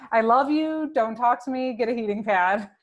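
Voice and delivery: playful mock orders. Friend voicing a wife to her husband, playful mock orders. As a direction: play the wife giving brisk orders in jest.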